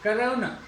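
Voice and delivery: कोरोना as kuh-ROH-nuh; English-style कोरोना, first vowel reduced to uh; English pronunciation. Shown as a demonstration. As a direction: say कोरोना with English diphthong and weak final vowel. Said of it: "English का यदि इसका सही pronunciation".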